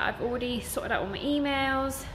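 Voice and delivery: slightly winded talking; out of breath. Real, not acted. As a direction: speak a bit short of breath. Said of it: "I'm so out of breath".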